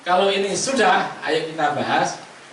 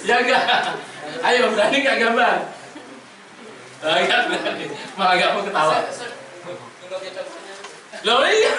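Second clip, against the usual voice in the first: laughing; 2 semitones higher than usual. Real, not acted. Teacher laughs at shy student.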